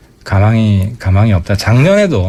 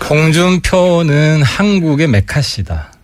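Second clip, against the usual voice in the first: slow, higher-pitched declaration; deliberate provocation; 4 semitones higher, slower than usual. Pretend. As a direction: deliver a drawn-out political jab on cue. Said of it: "홍준표 선배한테 좀 도발을". (도발하듯 또박또박 선언하는 말투)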